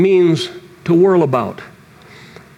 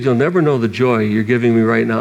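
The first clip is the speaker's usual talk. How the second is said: slightly lower, gentle re-quote of God; lightly tender repeat; 4 semitones lower than usual. Retold or imitated. Preacher repeating God's words before weeping. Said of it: "when he said".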